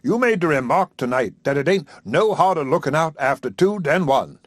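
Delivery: a hint of a satisfied country preacher; contented preacher. Haywood leading to proposal.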